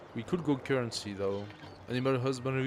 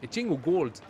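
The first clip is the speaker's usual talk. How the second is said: louder mock pirate English accent; 4 semitones higher, 6 dB louder than usual. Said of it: "the pirate, uh, English accent".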